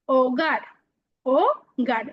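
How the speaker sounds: "ওগার" repeated carefully as o-gar, no H; silent H. Shown as a demonstration. Teacher shows learners the H is not opened, silent H. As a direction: say "ওগার" from a bare O, then split it o... gar. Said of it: "এইচটা কিন্তু খোলো না".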